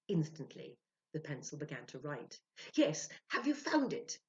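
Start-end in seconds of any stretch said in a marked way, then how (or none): 2.8-4.2 high, louder otherworldly reply; spirit's voice. Acted. Spirit Spinach answering Ludwig through Sylvia, high and loud. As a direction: answer as the spirit, pitched up and eager.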